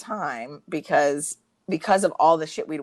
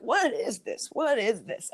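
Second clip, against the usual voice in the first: mock insistent demand; 5 semitones higher, slower than usual. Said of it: "being really vocal about it".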